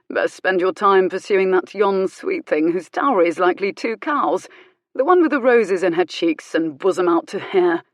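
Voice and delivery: lightly voiced bored London drawl; a touch of bored London drawl. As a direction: advise lazily in a bored London accent. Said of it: "in that bored London drawl".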